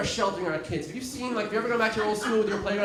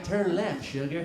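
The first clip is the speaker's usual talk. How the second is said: sexy GPS voice; 3 dB quieter, slower than usual. Retold or imitated. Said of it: "a sexy voice telling you where to go".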